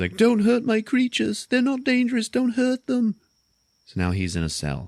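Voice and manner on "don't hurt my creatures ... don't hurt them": very high, tearful, sobbing voice. Retelling a scene where a man being dragged away pleads, imitating someone crying. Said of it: "and he's crying".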